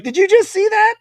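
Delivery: high, loud, amazed question to a friend; hardly believing what just happened; excited disbelief. Retold or imitated. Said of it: "I'm like".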